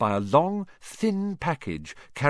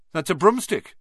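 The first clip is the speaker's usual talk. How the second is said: higher, louder sneer; 7 semitones higher, 5 dB louder than usual. Acted. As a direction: spit it out with spite. Malfoy sneering at Harry.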